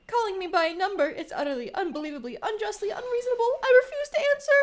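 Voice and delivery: rising huffy tantrum ending in a shout; indignant outburst. Acted. Prisoner protests being numbered.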